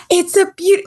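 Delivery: high, bursting morning cheer; sunny mom voice. Retold or imitated. Mom greeting her moody kid, high bursting cheer. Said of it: "like, just like that".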